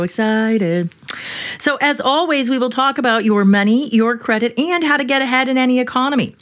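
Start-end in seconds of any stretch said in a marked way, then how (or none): 1.6-6.4 big booming radio announcer. Shown as a demonstration. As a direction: sell it like a hyped announcer. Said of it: "I was trying to use my best announcer voice".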